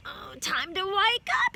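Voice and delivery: yawned. A narrator's reading. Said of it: "she yawned".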